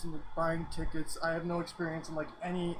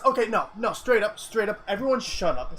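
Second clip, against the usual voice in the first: loud; 6 dB louder than usual. Real, not acted. Hushing chat excitedly.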